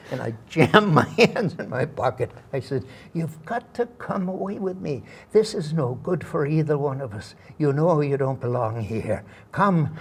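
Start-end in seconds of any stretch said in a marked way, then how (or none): 3.1-9.9 lightly acted, earnest stage plea; retold romantic pleading; juvenile romantic lead. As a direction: press her to come away, as in a play. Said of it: "I'm asking this woman to leave her husband".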